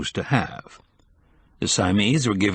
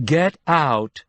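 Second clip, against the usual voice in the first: scream; 6 semitones higher than usual. A narrator's reading. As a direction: shout her out of the store. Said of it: "she screamed".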